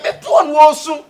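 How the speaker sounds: mock shout. Boasting at the crying man.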